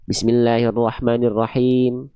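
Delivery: Bismillahirrahmanirrahim gabbled through quickly; rushed recitation. Shown as a demonstration. Teacher mimicking a hasty careless reciter, rushed. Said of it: "Beda sama yang baca".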